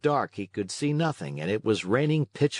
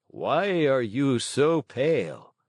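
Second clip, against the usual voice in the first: put-on old man voice; 3 semitones higher, slower than usual. Old man questions Pinocchio.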